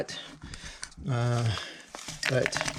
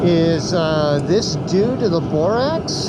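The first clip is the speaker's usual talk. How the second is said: through a respirator; 8 semitones higher, 5 dB louder than usual. Real, not acted. Still wearing respirator by furnace.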